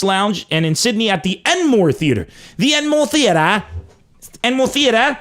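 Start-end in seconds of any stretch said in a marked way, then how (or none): 2.6-5.2 mock Australian. Shown as a demonstration. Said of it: "trying Australian pronunciation".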